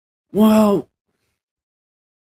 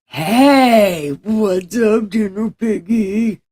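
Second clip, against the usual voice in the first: high, loud, bright hello to a pet; cheerful greeting; 5 semitones higher, 7 dB louder, slower than usual. Real, not acted. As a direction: sing out a happy greeting.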